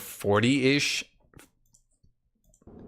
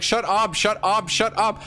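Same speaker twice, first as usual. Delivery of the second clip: mock demon snapping; 9 semitones higher than usual. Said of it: "Demon's like".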